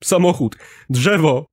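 high, loud frightened cries; terrified listing. A narrator's reading. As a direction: gasp out each find in terror. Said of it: "dojmująco przestraszony głos". (przerażony głos)

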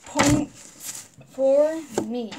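very slow, savoring each word; gloating. Real, not acted. Claiming the point from her friend, slow gloat. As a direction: drag it out to rub it in.

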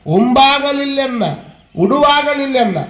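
slow, drawn-out sacred verse; measured scripture quoting; verse recitation. Acted. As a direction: recite each line slowly with long vowels.

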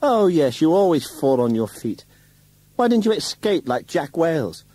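very high, loud, taunting; wife taunting husband, very high and loud; scornful mockery. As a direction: sneer at him from high above. Wife mocks husband shrilly.

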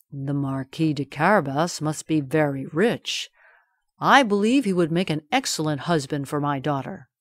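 awed, lightly voiced king; king's voice. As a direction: marvel at the riches. King admiring.

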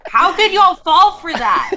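loud laughing disbelief. Real, not acted. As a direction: laugh through the words. Laughing at chat falling for it.

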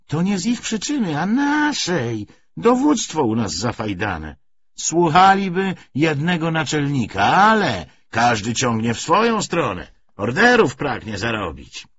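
put-on a gruff old soldier grumbling to a comrade; rough corporal. Corporal complaining to Karol about Bolsheviks, loud folksy rant.

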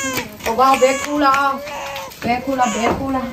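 tender, repeated reassurance; soothing a baby. Acted. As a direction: comfort a crying baby.

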